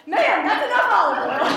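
loud, high-pitched comic reprimand; hammed-up shouted police order; exasperated officer. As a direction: call it out to stop her.

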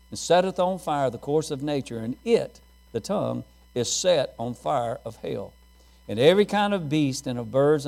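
measured King James reading to the church; scripture reading. Acted. Pastor reading James to the congregation, measured and solemn. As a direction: read the verses with weight.

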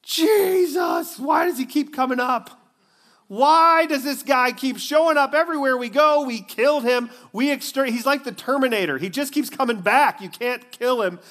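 high-pitched, loud mock-frustrated rant; exasperated religious leaders. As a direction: ham up the leaders panicking that Jesus keeps coming back. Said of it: "the religious leaders are just like going".

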